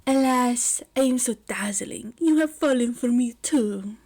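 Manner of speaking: breathy theatrical flourish on alas, hushed brag; preening dandy. Acted. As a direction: play the vain romantic.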